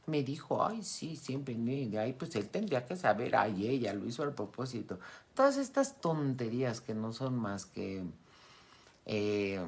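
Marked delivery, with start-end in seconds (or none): 0.0-5.0 whiny complaining. Retold or imitated. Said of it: "tonterías como".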